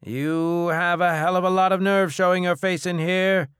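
high, loud, outraged bellow. Acted. Bar owner confronting the debtor who dares return, bellowing. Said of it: "Kolu bellowed from behind the bar".

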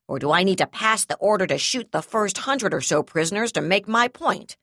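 loud, furious, near shouting; furious ultimatum. Acted. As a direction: bark the ultimatum.

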